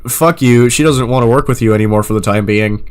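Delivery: loud, slow sneering kiss-off; mock rude dismissal. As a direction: brush them off with fake sorry. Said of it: "that's the vibe I'm getting".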